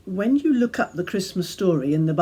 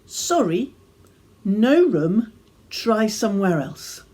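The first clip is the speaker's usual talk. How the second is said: rehearsed line; 3 semitones higher than usual. Retold or imitated. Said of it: "Just the one line".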